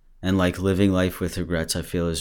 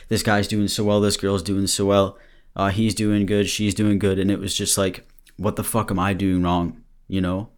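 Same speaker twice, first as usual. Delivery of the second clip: breathless, near tears; out of breath; 2 semitones higher than usual. Real, not acted. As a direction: talk while catching your breath. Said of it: "why do I sound like I'm crying? I'm out of breath".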